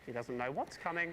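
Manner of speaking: slow menacing aside; slow ominous. Shown as a demonstration. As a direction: let it hang slowly like a threat.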